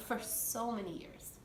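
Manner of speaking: soft laugh. Real, not acted.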